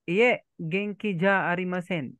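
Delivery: "Iye, genki ja arimasen" slowly drawn out; slow teaching model. Shown as a demonstration. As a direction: model the polite phrase slowly for a learner. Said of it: "So, pag hindi ka okay".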